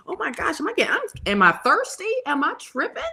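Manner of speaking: high-pitched, mock self-questioning; lightly hammed-up confusion; retold bewilderment. Retells questioning herself while choked up.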